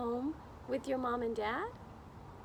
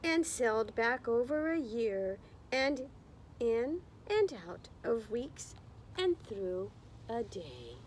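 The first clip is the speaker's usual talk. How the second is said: story narration. A narrator's reading. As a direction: read it like storytime, drawing out the words. Reading picture book to class.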